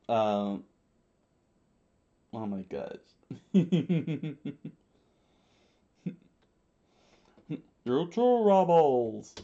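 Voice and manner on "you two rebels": loud, high, drawn-out bellow; commander's scream. A narrator's reading. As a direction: stretch it into a slow, loud shout. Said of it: "Lord Chaka screamed out".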